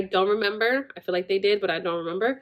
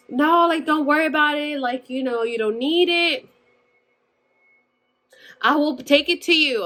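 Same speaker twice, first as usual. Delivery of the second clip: a lightly higher, brushing-off mom voice; mom's breezy reassurance; 5 semitones higher than usual. Retold or imitated. Mom telling her daughter not to worry, breezy. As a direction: wave it away like an easy-going mother.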